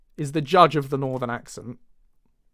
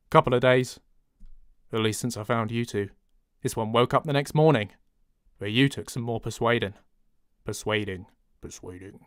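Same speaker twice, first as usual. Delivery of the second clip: understated, lowered delivery; low northern voice; 3 semitones lower than usual. Shown as a demonstration. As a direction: keep it low and a bit nasal. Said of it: "but we keep it like that".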